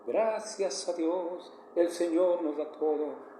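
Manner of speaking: mock-saintly sing-song morning greeting; mock pious singsong. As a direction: parody an overly spiritual spouse at breakfast, slowly. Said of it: "no vas a hablar cantando".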